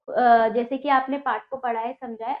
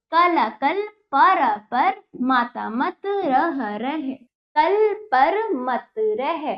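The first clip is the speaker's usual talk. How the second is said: reading aloud to pupils. Shown as a demonstration. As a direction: model the reading for young learners. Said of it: "teacher reads sentences word by word". (बच्चों को पढ़कर सुनाती अध्यापिका)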